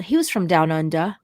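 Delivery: attempted Australian accent, not very convincing; half-baked Aussie accent; bad Australian accent. Shown as a demonstration. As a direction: try an Australian accent and miss. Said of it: "that's not a good accent".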